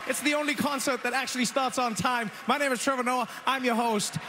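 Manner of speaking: big hyped host opener; punchy late night jokes. Real, not acted. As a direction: welcome the crowd with energy. Host opening the Grammys.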